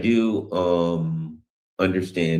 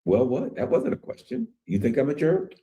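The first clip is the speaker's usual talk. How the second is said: challenging retort; 6 semitones higher than usual. Retold or imitated. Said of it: "and you say".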